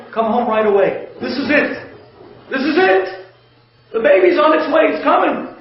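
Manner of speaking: high, rising panic call; hurried mock panic on the phone; panicked wife. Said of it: "she calls up her husband in a panic".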